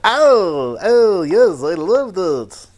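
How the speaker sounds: a light mock Scottish accent; slow, drawn-out mock Scottish. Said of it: "previously known as my Scottish voice".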